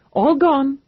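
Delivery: tossed off with playful glee; cheerful. Acted. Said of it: "he said cheerfully".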